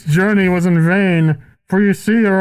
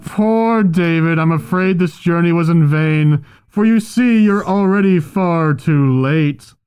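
muffled through cloth; 5 semitones lower than usual. Acted. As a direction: voice behind a cloth over the mouth. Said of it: "You have a cloth on your mouth?".

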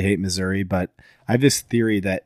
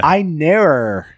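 slow, high mock Australian; Australian accent; 6 semitones higher, much slower than usual. Shown as a demonstration. Copying how Australians say it, exaggerated Australian accent. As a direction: draw it out in attempted Australian. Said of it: "I can't do Australia".

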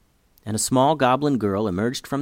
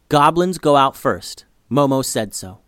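firm insisting; 3 semitones higher, 5 dB louder than usual. Acted. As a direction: tell her firmly, no arguing. Girl insisting to her sister.

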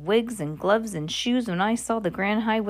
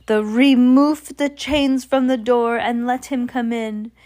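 witch voice; 4 semitones higher, 4 dB louder than usual. Acted. Grand High Witch ordering.

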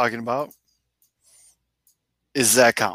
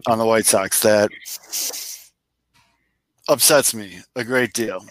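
super serious voice. Acted. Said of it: "Do, like, a super serious voice".

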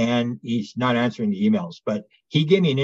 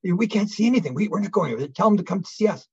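scared refusal; 7 semitones higher than usual. Retold or imitated. Frightened group refusing to go.

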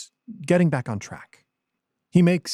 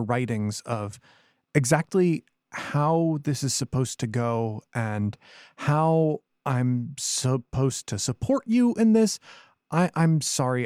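nervous stammering; 2 semitones higher than usual. Acted. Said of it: "I stammer".

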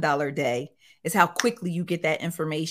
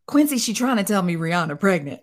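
exclaiming; 4 dB louder than usual. Real, not acted. Laughing outrage telling story.

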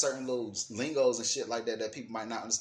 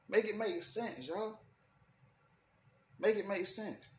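exasperated; 9 semitones higher than usual. Real, not acted. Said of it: "exasperated demand".

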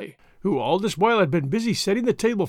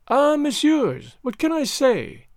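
grateful Comtesse; 8 semitones higher, slower than usual. A narrator's reading.

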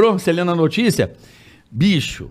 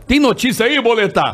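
higher, lightly performed on-air cue; imitated radio host; 3 semitones higher than usual. Host calls on newsreader during show, imitated on-air cue. Host cues the fake news.

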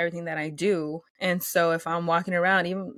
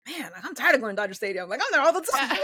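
mock complaint; 5 semitones higher, faster than usual. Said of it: "I'm kidding, Dodger fans".

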